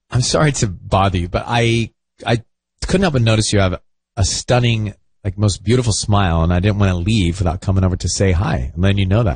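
low, hesitant, sincere approach; low-pitched, halting, earnest chat-up; sincere pickup line. Pretend. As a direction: say it as if really approaching someone. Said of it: "read it, like, as if you are actually gonna do it".

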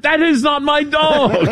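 high, slow mock French accent of the hotel clerk; Pink Panther French accent. Host quoting Pink Panther's hotel clerk in a slow, high mock French accent. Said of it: "the scene in Pink Panther".

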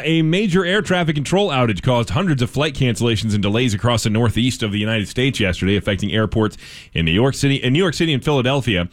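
steady radio news delivery; measured news-anchor reading. Acted. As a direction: read it as a local newscast. Reads news story.

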